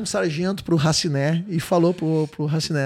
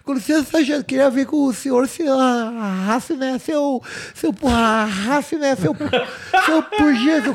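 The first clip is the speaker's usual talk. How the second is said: stuttering soldier; 4 semitones higher than usual. Retold or imitated. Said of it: "ele era gago e fanho".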